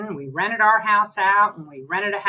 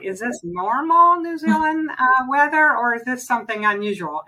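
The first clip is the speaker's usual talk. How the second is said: retold alarm; 6 semitones higher than usual. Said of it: "And we're like".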